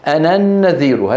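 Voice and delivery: أنا النذير run together as ana-nnadhiir; short a in أنا, doubled n into النذير; linked reading. Shown as a demonstration. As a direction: drop the final alif of أنا straight into النذير. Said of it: "تسقط وصلا".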